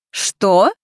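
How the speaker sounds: baffled, rising "what?"; uncomprehending. A narrator's reading. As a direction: ask it as if you missed the point. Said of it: "непонимающе произнесла женщина".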